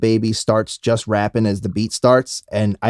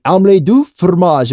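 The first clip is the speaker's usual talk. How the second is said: slightly raised, louder French cartoon voice; mock French accent; 5 semitones higher, 4 dB louder than usual. Retelling Dexter's cheese episode, mock French accent. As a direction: roll it off the tongue like a Frenchman. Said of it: "roll it off his tongue like a French guy".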